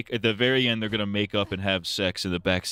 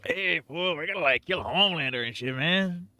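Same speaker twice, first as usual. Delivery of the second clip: higher, hammed-up Cholo gangster voice, fool and man tacked on; mock Cholo accent; 9 semitones higher than usual. Joking about Butcher in the finale, mock Cholo accent. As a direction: play a cartoon Cholo tough guy with a lilt. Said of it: "he talks like a Cholo".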